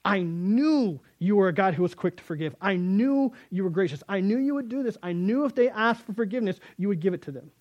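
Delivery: a touch of bitter complaint; mild mock anger. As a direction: complain up at heaven, lightly acted. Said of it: "Shakes his fist at heaven".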